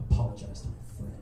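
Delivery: hushed, voiceless retold demand. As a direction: act out a cold demand in a silent standoff. Menacing demand in a silent standoff.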